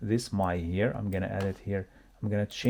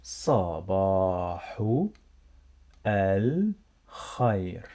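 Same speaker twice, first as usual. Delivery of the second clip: صباح and الخير drawn out slowly with a pause between; word by word; 2 semitones lower than usual. Shown as a demonstration. Teacher showing learners the turtle's greeting, word by word. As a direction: stretch صباح, pause, then give الخير on its own. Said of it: "Let me make it here in a big size".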